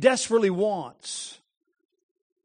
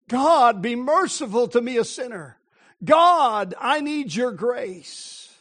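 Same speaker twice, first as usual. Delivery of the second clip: sinner's plea; 2 semitones higher, slower than usual. Acted. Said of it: "fall before Him and say".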